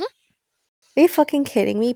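high, slow, stunned outrage; outraged disbelief. Real, not acted. Friend reacting with stunned outrage to the story. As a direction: let the shock stretch every word out. Hearing women judge the husband.

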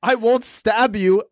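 slow, deliberate deadpan joke; joking promise. Pretend. Friend jokes to the man at the car, slow mock promise. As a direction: draw it out as a pretend reassurance.

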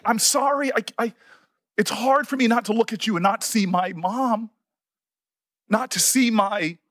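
real feeling, faltering and restarting; apologize, then push haltingly through the emotion; emotional. Real, not acted. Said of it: "this is why I get emotional".

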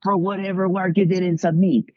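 high-pitched, stern mock Russian professor; Russian professor interrogation. Mock Russian professor refusing a student credit, stern and high. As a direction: imitate an interrogator laying down the rules. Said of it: "the Russian spy in him came out".

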